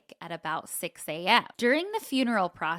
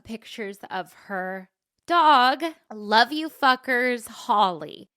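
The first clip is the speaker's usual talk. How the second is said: slow, louder, choked-up sobbing read; tearful thanks to the listener who wrote in; crying; 3 semitones higher, 7 dB louder than usual. Real, not acted. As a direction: fight back real tears as you thank her. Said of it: "you're crying and I can't handle it".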